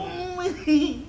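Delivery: chuckle. Acted. Cười cợt sau lời bình phẩm.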